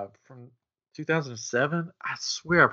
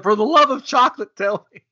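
put-on German accent; 10 semitones higher, 7 dB louder than usual. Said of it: "in a German accent".

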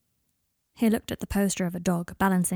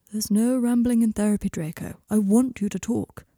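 lightly voiced, firm therapist; measured therapist. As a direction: reassure a client with measured authority. Therapist urging client to talk.

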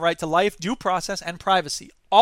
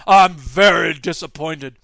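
slow, lower, detached corporate shrug; unbothered company boss; 3 semitones lower, 7 dB louder, slower than usual. Retold or imitated. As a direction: say it like a CEO who couldn't care less. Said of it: "the head of the company just went".

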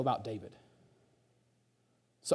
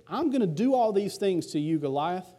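higher, fired-up David declaring victory; higher voice of David, defiant; bold David; 6 semitones higher than usual. Retold or imitated. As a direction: declare it like a confident young fighter. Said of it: "David says this".

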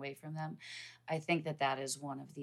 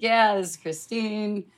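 bright and louder, snapping awake; perked-up phone voice; 6 semitones higher, 10 dB louder than usual. Retold or imitated. Woman answering a stranger's early call, suddenly perky and loud. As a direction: put on her alert phone voice.

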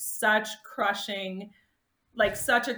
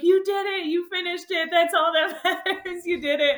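high, loud, emotional praise; friend's tearful cheer; 9 semitones higher, 5 dB louder than usual. Retold or imitated. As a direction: hug her and cheer through tears. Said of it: "she's like".

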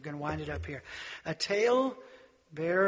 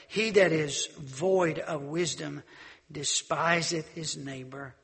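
slow, solemn reading of the verse; scripture reading; 4 dB louder, slower than usual. Acted. Preacher reading the verse to the congregation, slow and solemn. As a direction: read the verse slowly, weighing each word.

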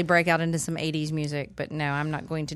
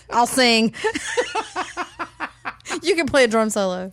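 laughing; 8 semitones higher, 5 dB louder than usual. Real, not acted. Joking about musical guests.

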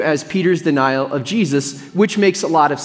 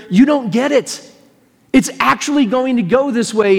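higher-pitched, imitated insistence; earnest retold correction, pitched up; acted correction; 3 semitones higher than usual. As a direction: imitate setting someone straight. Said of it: "he's saying to Peter".

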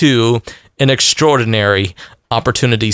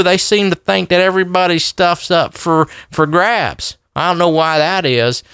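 put-on Southern cracker accent; 2 semitones higher than usual. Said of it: "put on my cracker voice".

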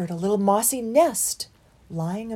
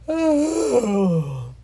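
sleepy sigh; 5 semitones higher, 6 dB louder than usual. A narrator's reading. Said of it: "yawned Loafer".

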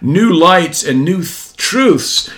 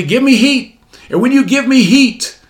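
mock demand; 8 semitones higher than usual. Mocking a greedy fireplace demand.

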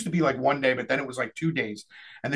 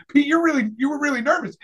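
teasing; 9 semitones higher than usual. Retold or imitated. Retelling a teasing remark to Pete.

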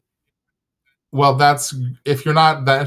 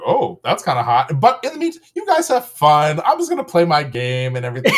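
imitating easygoing partner; 2 semitones higher than usual. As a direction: toss it off, half laughing. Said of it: "a partner who's like".

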